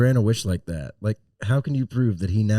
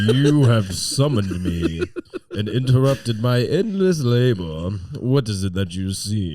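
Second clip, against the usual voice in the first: put-on British accent. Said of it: "Who's got a British voice".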